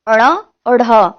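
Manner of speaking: अड़ा और ढ said with flapped retroflex r sounds; flapped consonants. Shown as a demonstration. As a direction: flick the tongue on अड़ा and ढ, letter by letter. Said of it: "नाम के भी दो और व्यंजन".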